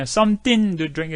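"Something to drink" drawn out as "somtin du drink"; slow, blurred "Something to drink"; reduced slow demo. Shown as a demonstration. Teacher modeling the natural reduced form. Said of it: "이렇게 빨리 하지요".

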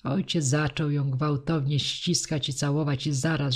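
ordinary delivery

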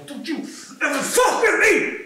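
loud, high threat; boy showing off his power; threatening. Retold or imitated. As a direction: warn them off, menacing.

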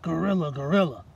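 lightly voiced frightened mouse; a hint of a scared little mouse; squeaking mouse. Mouse spots the ape, lightly voiced squeak. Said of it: "she squeaked".

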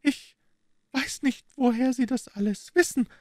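high, far-off voice of an anxious Italian woman. A narrator's reading. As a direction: ask tensely, as a frightened Italian wife. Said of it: "sagte sie". (ängstliche Italienerin, hohe Stimme)

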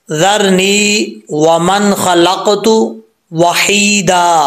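slow measured recitation of the verse; Quranic recitation. Shown as a demonstration. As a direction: recite it slowly, tajweed style. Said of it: "अब अक्सर लोग क्या पढ़ते हैं". (धीमी क़िराअत)

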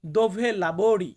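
dove lavori drawn out very slowly; slow teaching model. Shown as a demonstration. Teacher modelling dove lavori slowly for viewers. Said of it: "আমাকে বলতে হবে".

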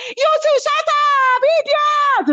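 very high mimicked screech; mock shrill telling-off; Karen. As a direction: imitate an angry outburst at the top of the pitch range. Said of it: "And Karen was like".

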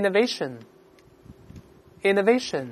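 slow, deliberate word drill; read-aloud model. Shown as a demonstration. Teacher leading students through a new word, read-aloud model. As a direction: pronounce it slowly for repeating, pausing between takes. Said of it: "大声来一".

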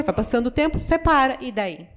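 ordinary talk

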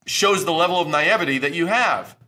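loud, high, heated rant. Real, not acted. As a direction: rail against naive pitchers. Ranting at naive pitchers.

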